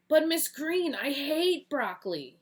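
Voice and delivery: high, loud, slow whine; whiny protest. Acted. Eagle Boy whining at Miss Green about broccoli. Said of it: "he cried out".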